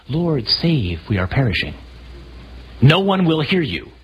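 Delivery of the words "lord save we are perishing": mild mock calm. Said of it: "You cannot have a conversation in a windstorm".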